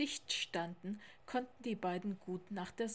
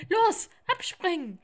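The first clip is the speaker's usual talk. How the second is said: high, loud urgent shout; called-out command; 9 semitones higher, 13 dB louder than usual. A narrator's reading. Polar bear urging Theo off the train, loud call. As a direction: call out the order to jump. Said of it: "rief der kleine Eisbär".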